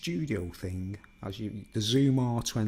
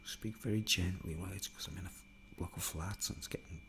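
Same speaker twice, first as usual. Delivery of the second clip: hushed, softer and a little low; speaking gently; 3 semitones lower, 9 dB quieter than usual. Real, not acted. Talking to viewers from a block of flats in the evening, gently. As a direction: keep it down, almost whispering. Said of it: "need to be able to speak very low".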